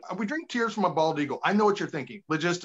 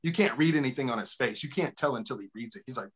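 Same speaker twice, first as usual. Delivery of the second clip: Maury reveal; 4 semitones lower than usual. Retold or imitated. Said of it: "Maury's like".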